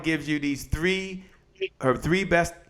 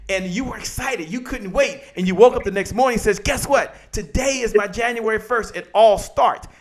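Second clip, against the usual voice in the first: higher-pitched eager buildup; acted excitement; 5 semitones higher than usual. Waking on January first ready to start, excited. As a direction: play the New Year's morning thrill, pitched up. Acting out New Year's morning excitement.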